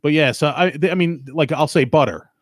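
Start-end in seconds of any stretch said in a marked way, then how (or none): 1.8-2.3 butter said pʌtə˞ with the R at the end; butter said with its final R sounded. Shown as a demonstration. Explaining his accent to listeners, butter with a full final R. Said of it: "I'll put the R at the end of butter".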